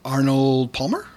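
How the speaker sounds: pumped-up bodybuilder host; fitness host character. Pretend. Host playing Grafilla Gorilla character.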